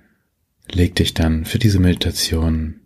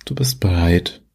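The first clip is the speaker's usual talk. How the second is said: whispering. Acted. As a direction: whisper it gently.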